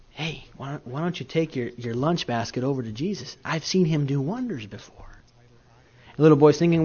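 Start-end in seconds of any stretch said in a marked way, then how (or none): 0.1-5.1 hushed urging. Retold or imitated. Andrew urging boy quietly.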